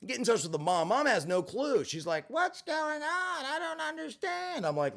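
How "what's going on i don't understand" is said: high, slow bewildered mother's voice; a mother lost and pleading, high and slow; confused mom. Retold or imitated.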